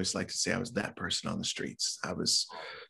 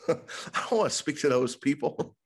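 much higher indignant no; mock refusal; 6 semitones higher than usual. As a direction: refuse with comic horror. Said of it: "And I said".

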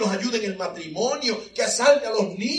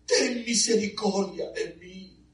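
tearful plea; slower than usual. Retold or imitated. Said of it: "ella está gritando".

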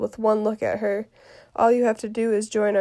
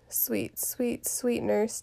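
coaxing; 7 dB quieter, much slower than usual. Acted. Juliet coaxes the nurse.

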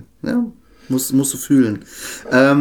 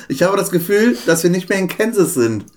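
lightly raised, wistful call; higher girl's voice; 6 semitones higher than usual. Acted. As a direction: call the dog's name a bit higher. Quoting the Wizard of Oz.

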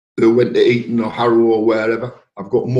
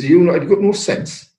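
retold scolding; 7 semitones higher than usual. Mother scolding son in retold quarrel.

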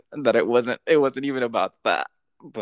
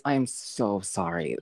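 ordinary talk, nothing marked

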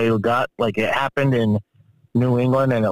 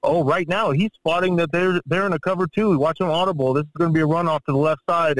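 imitating an eager commentator, pitched higher; mock play-reading commentary in a higher voice; Tony Romo; 6 semitones higher than usual. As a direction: call the play like an excited TV analyst. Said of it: "he comes up and he's like".

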